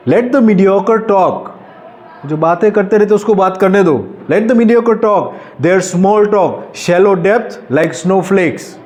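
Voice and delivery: poem recital. Acted. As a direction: declaim it with lifted pitch and space.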